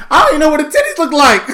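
fast, high, loud laughing outburst; laughing shout. Real, not acted. Joking with his cohost about sex ed, a fast laughing shout. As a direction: blurt it out through laughter.

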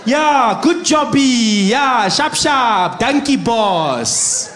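high, loud, drawn-out fake African accent; crude, hammed-up African accent at full volume; mock African accent. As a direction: holler in a condescending put-on African accent. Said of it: "white people changing their accent when they talk to black".

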